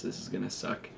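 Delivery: hiccuping between words; interrupted by real hiccups. Real, not acted. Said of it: "I have the hiccups".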